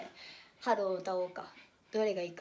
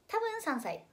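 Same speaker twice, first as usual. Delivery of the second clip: high-pitched repeat; 9 semitones higher, slower than usual. Shown as a demonstration. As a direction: jump up high on 多分三歳.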